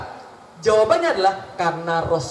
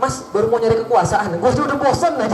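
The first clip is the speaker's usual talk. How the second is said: bored Pharaoh. Pretend. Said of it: "Fir'aun bilang".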